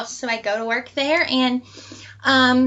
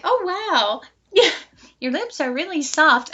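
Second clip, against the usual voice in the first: giggly; 4 semitones higher than usual. Retold or imitated. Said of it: "I was like".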